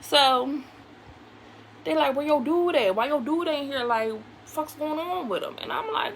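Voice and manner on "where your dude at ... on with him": blunt Philly street talk, impatient. Retold or imitated. Uncles asking why her dude isn't there, in Philly talk. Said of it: "that's how they be talking".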